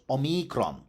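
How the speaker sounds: omikron as o-MEE-kron, stress on the middle; Latin stress. Shown as a demonstration. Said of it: "The only stre".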